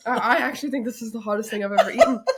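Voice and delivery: gasping out words between laughs at the heat; laughing through the burn. Real, not acted. To her sister after eating the sauce, laughing in pain. Burning mouth from hot sauce.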